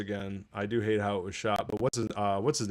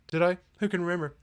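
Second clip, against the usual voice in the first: mock ditzy voice; 7 semitones higher, faster than usual. Mocking the line again.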